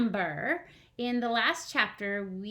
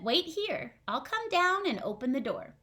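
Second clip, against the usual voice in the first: snail voice; 3 semitones higher than usual. Acted. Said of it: "the snail said".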